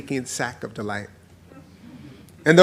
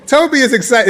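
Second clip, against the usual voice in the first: excited; 9 semitones higher, 8 dB louder than usual. Shown as a demonstration. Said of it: "Take a poll".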